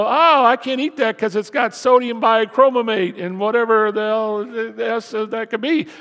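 hammed-up label reader, a touch outraged; mock fussy shopper. Pastor mocking a fussy label reader, loud mock fuss. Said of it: "I don't read the ingredients and go".

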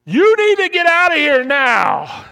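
high, very loud alarm scream; panicked scream. Acted. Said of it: "your amygdala screams out and says".

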